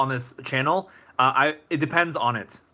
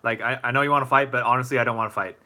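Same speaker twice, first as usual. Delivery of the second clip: calm; faster than usual. Acted. Streamer answering someone who wants to fight, calmly. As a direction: talk a hothead down without pushing back. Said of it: "I would just calmly say".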